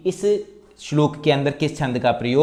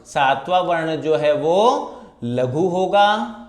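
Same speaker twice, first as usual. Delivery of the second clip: slow emphatic rule; 3 semitones higher, slower than usual. Shown as a demonstration. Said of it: "दूसरे और चौथे चरण में सातवां वर्ण".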